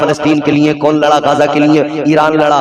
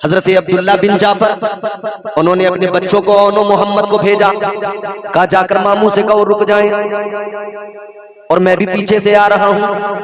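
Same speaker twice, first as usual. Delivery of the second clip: higher, sustained preaching chant; solemn declaimed storytelling; intoned sermon narration; 5 semitones higher than usual. Acted. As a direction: recite the sacred story on a held high note.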